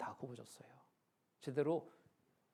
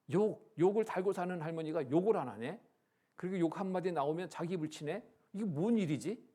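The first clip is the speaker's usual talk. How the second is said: higher, louder wondering; retold astonishment; 4 semitones higher, 6 dB louder than usual. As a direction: imitate neighbours puzzling over a sudden change. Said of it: "깜짝 놀라는 겁니다". (깜짝 놀란 이웃들 흉내)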